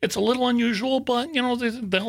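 high, lilting mock Southern lady; Southern accent. Copyright office lady explains the holdup, put-on Southern accent. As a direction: amateurish Southern impression, soothing the caller. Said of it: "Southern accent".

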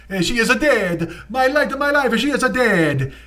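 mock grieving Italian father; Italian accent. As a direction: wail like a heartbroken papa.

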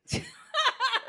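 sudden high cackle; loud burst of laughter. Real, not acted. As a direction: explode into a laugh.

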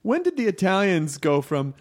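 high, laughing come on; can't believe it, laughing through it; laughing disbelief. Real, not acted. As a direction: friend laughing in mock protest.

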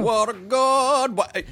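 slow, high doting voice; sing-song praise. Acted. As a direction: croon it like praising a dog. Riffing on shanty line.

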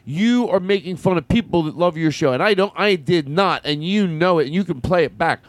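rally the crowd like a candidate; politician speech. Acted.

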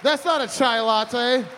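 mock boss's shout; mock outrage. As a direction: fire someone over a drink, hammed-up. Acted outburst over wrong drink.

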